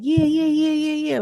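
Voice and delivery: high, rapid-fire imitation of excited fans; hyped-up cheering. Girls on the boat watching the fight, imitated hyped cheering. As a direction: chant it high like a hyped onlooker. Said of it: "is all hype, like".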